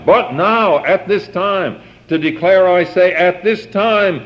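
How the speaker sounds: "But now, at this time" in high, emphatic phrases; stress on now and time. Shown as a demonstration. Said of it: "how that time element is emphasized".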